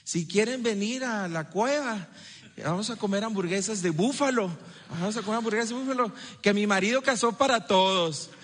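lightly voiced chatty housewife; chatty wife. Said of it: "Algo así como".

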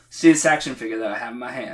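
light New Zealand accent impression; a hint of a Kiwi preacher. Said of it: "I'm trying to do his New Zealand accent".

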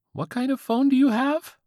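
put-on high squeaky teen voice; squeaky-voiced teen. A narrator's reading. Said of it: "the squeaky-voiced teen".

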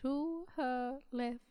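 slow, droning monotone. Acted. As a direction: drag every word, no life. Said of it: "I'm in this monotone voice".

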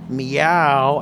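drawn-out, slow-motion meow. Retold or imitated. Retelling the first meow he heard, in slow motion. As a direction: stretch the meow out slowly. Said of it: "like, slow motion".

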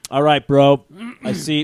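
laid-back bro voice, loud opener; lightly voiced chummy bro; Jesus. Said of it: "'cause that's how Jesus talks to me".

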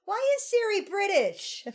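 high-pitched mock bewilderment; retold bemused question. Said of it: "and he's like".

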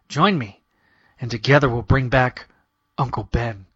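villain's grand pitch, sinking at the end; punchy dramatic comic narration. Acted. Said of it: "punchy dramatic comic narration".

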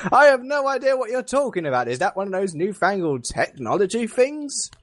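put-on Victorian accent. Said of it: "I've been doing a Victorian accent all day".

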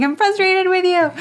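imitating a yell. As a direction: yell it out the window like a toddler. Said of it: "you just heard him yelling".

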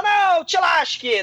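put-on sass Wonka like a spoiled kid; bratty girl.

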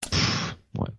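breathy scoffing pff; scornful sigh. Real, not acted. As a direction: blow out air in contempt. Scoffing at the match booking.

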